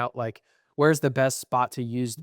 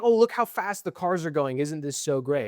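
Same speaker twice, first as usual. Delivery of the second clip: put-on idiot accent; 3 semitones higher than usual. Speaker mocking F1 officials impressed by speed, in an idiot voice. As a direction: play an easily impressed idiot. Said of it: "an idiot accent".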